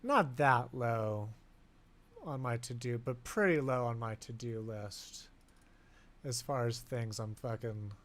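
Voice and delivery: slow, drifting stoned speech. Real, not acted. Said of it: "Sorry, I'm fucking stoned".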